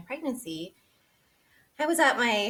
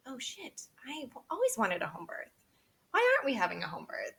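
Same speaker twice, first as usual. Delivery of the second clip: realization; 5 semitones higher than usual. Retold or imitated. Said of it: "it, like, clicked for me".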